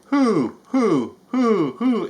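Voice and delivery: high, loud bouncy hoo-hoo; Tigger whoops. Acted. Tigger bursts in hooting.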